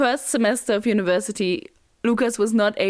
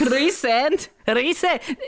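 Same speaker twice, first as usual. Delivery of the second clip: Scottish accent; 3 semitones higher, slower than usual. Shown as a demonstration. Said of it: "There I have to go Rysand".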